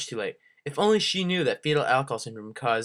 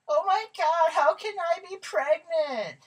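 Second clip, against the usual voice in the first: goofy muffled sock puppet; slower than usual. Acted. Karen shocked.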